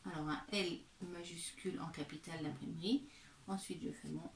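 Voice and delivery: soft whisper to herself; whispered aside. Real, not acted. Teacher murmuring to herself at the board, whispered. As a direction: murmur it under your breath while writing. Aside while writing the letter.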